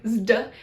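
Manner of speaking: "zd" as one buzzing cluster; zd sound. Shown as a demonstration. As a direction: run z into d in "zd", as in wisdom. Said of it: "as in the word wisdom".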